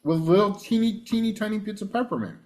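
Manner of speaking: chewing while talking; talking with a mouth full of candy. Real, not acted. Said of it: "I'm gonna talk with my mouth full".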